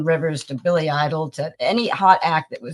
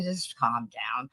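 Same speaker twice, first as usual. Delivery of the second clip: calming; 6 semitones lower, 9 dB quieter, slower than usual. Retold or imitated. Guard soothing her.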